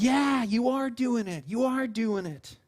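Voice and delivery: slow, drawn-out parental encouragement; indulgent, slow praise; encouraging parent. Retold or imitated. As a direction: cheer on a small child, stretching the words.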